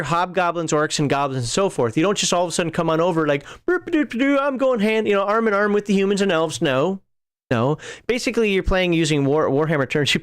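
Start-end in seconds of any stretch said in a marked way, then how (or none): 3.7-6.6 high, goofy mock orc voice, higher then easing down; silly mock orc. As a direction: lampoon a naive orc joining the humans. Mocking a cheerful orc player.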